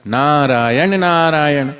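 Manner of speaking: slow, tender chant of नारायण नारायण; lovingly. Shown as a demonstration. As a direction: say नारायण नारायण slowly with love. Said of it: "प्यार से बोलो". (प्यार से धीरे नारायण नारायण)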